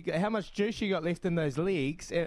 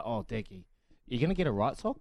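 imitated fussy perfectionist; 5 semitones lower than usual. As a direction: lower mimicked teammate voice. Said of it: "'cause he's a perfectionist".

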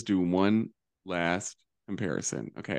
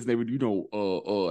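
mumbled mock-Southern run-on; exaggerated thick Southern mumble; thick Southern accent. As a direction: imitate a thick Southern accent, words blurring. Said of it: "they'd be talking like this".

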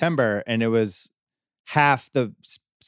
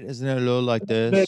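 flat, even Icelandic accent; monotone Icelandic accent. Shown as a demonstration. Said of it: "it's a little monotone".

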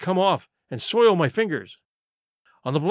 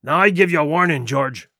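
louder, stern pirate threat; angry warning; 3 semitones lower, 3 dB louder than usual. Acted. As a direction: warn him off hard. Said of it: "he cried".

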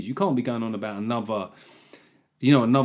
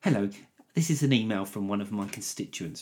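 mock politician reading out an email; measured, put-on voice of an earnest MP; Jeremy Corbyn; 3 semitones lower, 4 dB quieter than usual. Mimicking an MP reading constituents' emails, earnest impression. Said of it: "It's not Mister Corbyn".

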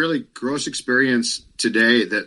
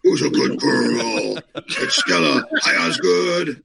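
talking to a dog; 2 semitones higher than usual. Real, not acted. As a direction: coo slowly at the pet. Voicing pet talk to dog.

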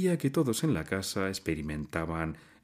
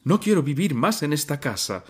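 loud and high, shouting through tears; crying shout; 7 semitones higher, 6 dB louder than usual. A narrator's reading. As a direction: cry out in despair. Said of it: "gritó el estudiante, llorando".

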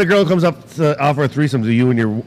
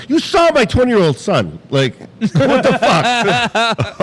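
higher, mock-outraged protest; exasperated disbelief; 6 semitones higher, much slower than usual. Husband stung by wife being guessed younger, mock outrage. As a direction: protest in comic disbelief, ending drawn out.

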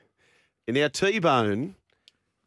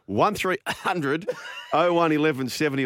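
laughing; 5 semitones higher than usual. Real, not acted. Laughing while reading phone number.

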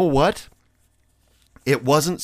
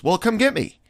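much higher, lightly voiced bossy girl; demanding girl; 12 semitones higher than usual. Girl texting the friend to pick her up, bossy. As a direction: toss off the demand like it's owed.

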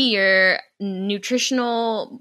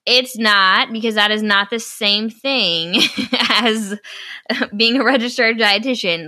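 indignant correction; 3 semitones higher, 6 dB louder than usual. Real, not acted. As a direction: lay it down word by word. Indignant rebuttal.

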